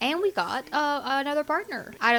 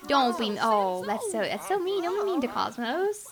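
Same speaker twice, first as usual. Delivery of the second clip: scolding. Real, not acted. Scolding her game character.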